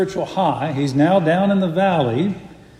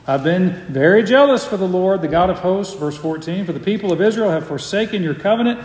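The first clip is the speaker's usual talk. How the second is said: a hint of mocking self-pity; self-pitying Elijah. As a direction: whine lightly, poor pitiful me. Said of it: "Same self-pitying".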